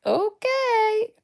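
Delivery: high, softened, drawn-out wary okay; skeptical okay. Retold or imitated. Black listener answering the gushing, skeptical okay. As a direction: stretch it up high, unconvinced.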